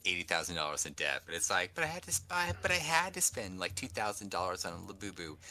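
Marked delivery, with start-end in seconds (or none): 1.8-5.4 indebted excuse-maker. Retold or imitated. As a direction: drag out the last phrase in feeble self-justification. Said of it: "It's people who have, like".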